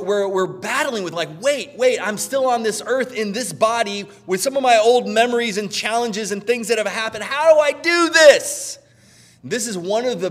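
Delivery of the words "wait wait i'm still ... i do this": high, pleading mock believer voice; anxious plea. Believer torn over old struggles, high and pleading. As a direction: voice the flustered believer, pitched up.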